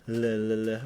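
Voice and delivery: "l" repeated with tongue at the front; clear L. Shown as a demonstration. Player demonstrating the tongue part, "l" as "luh". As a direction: sound out "l" as quick "luh". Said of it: "I do do the".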